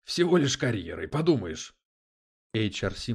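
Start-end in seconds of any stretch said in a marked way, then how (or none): 0.0-1.8 sarcastic, higher and louder; wry, dismissive scoff. A narrator's reading. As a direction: shrug it off with mock indifference. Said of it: "хмыкнул Дэвид".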